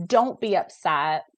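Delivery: slow, dismissive scolding; dismissive parent. Retold or imitated. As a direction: brush the feelings off, slowly. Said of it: "To be like".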